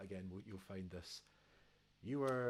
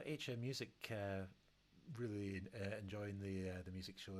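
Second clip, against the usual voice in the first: stumbling over loose dentures; tripping over the words with loose teeth; slower than usual. Real, not acted. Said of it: "I put my teeth in trying to say that again".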